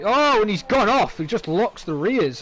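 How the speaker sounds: sudden jump in pitch and volume; surprised. Real, not acted. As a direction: react to the crash live. Car goes off live.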